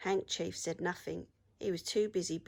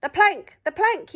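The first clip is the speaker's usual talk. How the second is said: loud, high chanting yell; pirate yell; 12 semitones higher, 14 dB louder than usual. A narrator's reading. Pirates yelling at the troll, loud chant. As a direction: yell it like a bloodthirsty crew. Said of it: "yelled Ben Buckle and Percy Patch".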